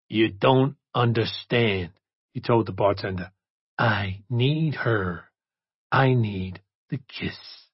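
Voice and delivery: very slow, aching plea; desperate pleading. Acted. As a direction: beg like an addict in withdrawal. Desperate addict begs bartender.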